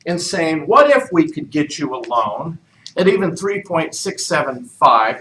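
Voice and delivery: ordinary talk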